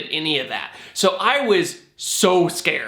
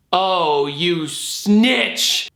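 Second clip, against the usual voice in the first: mock outrage; much slower than usual. Acted reaction to teacher's betrayal.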